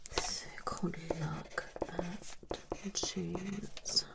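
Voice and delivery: soft, halting self-talk; note-taking murmur. Acted. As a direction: say it softly while jotting it down. Therapist noting down answers aloud.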